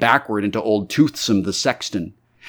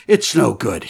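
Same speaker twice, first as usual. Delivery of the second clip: sobbing for breath; 4 semitones higher, 3 dB louder than usual. Acted. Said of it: "as if sobbing for breath".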